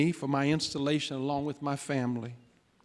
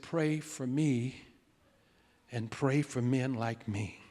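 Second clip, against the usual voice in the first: slow, soft, earnest request; solemn plea; 3 semitones lower, 4 dB quieter, slower than usual. Retold or imitated. Father grips son's hand asking for prayer, solemn. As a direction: ask it quietly, giving each word room.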